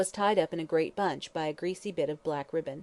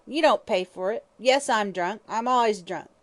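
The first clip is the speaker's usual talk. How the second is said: malignant hag; 3 semitones higher, 5 dB louder than usual. Acted. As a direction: spit out your defiance. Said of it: "hatred and suppressed malignity was her voice".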